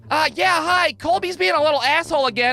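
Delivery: exasperated teacher calling the office; weary, fed-up teacher voice; teacher on the phone. Retold or imitated. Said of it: "our teacher would have to call down to the office and be like".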